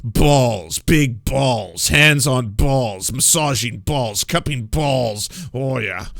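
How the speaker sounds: mock sultry. Mock-seductive list of balls.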